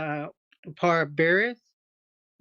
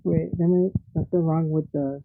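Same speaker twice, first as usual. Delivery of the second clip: muffled mic. Real, not acted. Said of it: "You sound all muffled".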